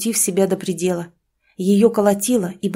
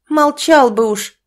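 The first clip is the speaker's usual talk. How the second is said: angry retort; 6 semitones higher, 6 dB louder, slower than usual. Acted. Wife snapping at husband.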